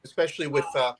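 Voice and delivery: choppy, breaking-up mic; bad connection. Real, not acted. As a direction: voice cutting out over a call. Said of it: "your mic's breaking up a little bit".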